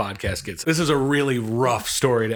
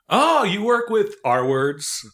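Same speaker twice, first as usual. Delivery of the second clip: crude guy; 10 semitones higher, 4 dB louder, slower than usual. Retold or imitated. Imitating crude guy's question.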